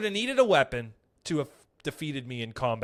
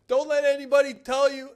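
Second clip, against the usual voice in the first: homeless guy; 9 semitones higher, 6 dB louder than usual. Retold or imitated. Homeless guy voiced in story.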